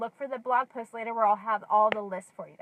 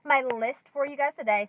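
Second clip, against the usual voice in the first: out of breath; 3 semitones higher, 3 dB louder than usual. Real, not acted. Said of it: "Sorry I'm out of breath".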